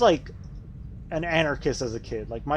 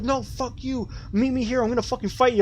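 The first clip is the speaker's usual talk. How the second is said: high, mocking bully voice, pitched way up; high squeaky imitation of an angry bully; 10 semitones higher than usual. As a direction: ham up the furious kid picking a fight. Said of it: "they would freak the fuck out".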